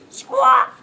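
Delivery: high, loud squawking parrot. A narrator's reading. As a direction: squawk a cheeky goodbye. The parrot taunts as it escapes.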